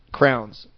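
"crowns" for crayons, one syllable. Shown as a demonstration. Asking co-host about crayons, said as "crowns". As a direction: say "crowns", rhyming with towns. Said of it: "how do you say the".

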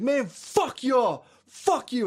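high, drawn-out mock tantrum; whiny high-pitched retold yell; angry kid outburst. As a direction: imitate a furious kid cursing. Acts the kid cursing teammates.

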